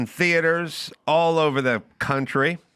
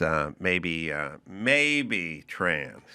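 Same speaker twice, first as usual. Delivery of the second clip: mock hesitant; 10 semitones lower, 6 dB quieter, much slower than usual. Mimicking Don Lemon hesitating.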